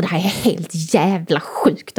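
slow, low-key muttered retold outburst; a mild, slow mock storm-out. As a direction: drag out the curse under the breath. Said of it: "går jag ut och säger så här".

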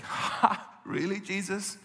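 scoffing, sarcastic disbelief; mild mock derision; cynical mocking. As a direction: sneer at a foolish claim. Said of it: "it's a very cynical laugh".

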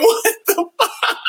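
high, slow stunned exclamation; reacting to the absurd scene, high and slow; comic disbelief. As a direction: stretch it out in shock. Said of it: "I'm like".

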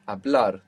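"Hablar" stressed on BLAR; stress on the end. Shown as a demonstration. Teacher repeating the answer for to speak, "Hablar" stressed on BLAR. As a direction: lean on the last syllable of "Hablar". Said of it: "the accent is coming on the end".

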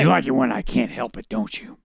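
a hint of a caped-hero put-on; Batman voice. Reader redoes Bruce's line on request, light Batman voice. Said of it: "You didn't do the Batman voice".

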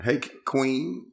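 acting a fool. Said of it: "I just be acting a fool".

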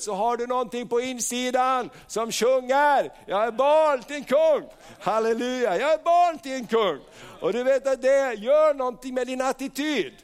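high, insistent preacher's voice; fervent preaching. Acted. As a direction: build up and proclaim it. Preaches at full force. (kraftfull, eldig predikan)

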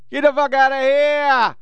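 high outraged disbelief; outraged yell. Real, not acted. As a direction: shout it out in outrage. Outraged reaction, repeated higher.

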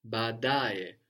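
"baadaye" with a long opening aa and the accent on da; stress on DA. Shown as a demonstration. Teacher showing where the accent falls, "baadaye" stressed on da. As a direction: hold both a's of "baadaye", then stress the da. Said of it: "accent on the penultimate one".

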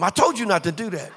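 mock exasperated mom, pitch lifting; not so nicely. Mother catching her child in the cereal, mock scolding. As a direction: scold the child with mild, acted sharpness. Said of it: "they don't say it as nicely".

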